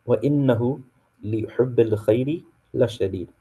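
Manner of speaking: fast, melodic Quranic recitation; chanted Arabic verse recitation. Shown as a demonstration. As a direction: recite the verse in tajweed style. Reciting ayah eight in Arabic.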